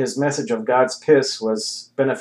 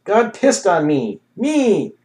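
high, loud, frantic shout; shouting after him; 9 semitones higher, 5 dB louder, slower than usual. A narrator's reading. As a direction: yell it after the man walking away. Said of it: "Heckholler shouted after him".

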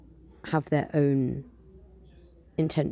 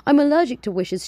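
much higher, louder wail; 11 semitones higher, 7 dB louder than usual. Acted. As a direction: wail it like a crying cat. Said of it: "she wailed, meowed".

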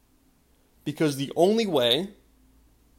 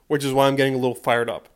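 fired up; 3 dB louder, faster than usual. Shown as a demonstration.

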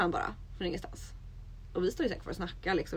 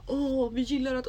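higher, slow imitated gushing; mock gushing; 6 semitones higher, slower than usual. Imitating guys who suddenly turn friendly, mock gushing. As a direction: draw it out in mock enthusiasm.

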